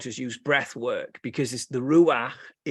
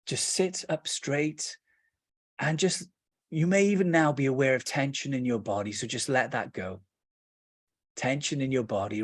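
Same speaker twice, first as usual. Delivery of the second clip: guided meditation; 3 semitones lower than usual. Acted. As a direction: ease them into rest, unhurried.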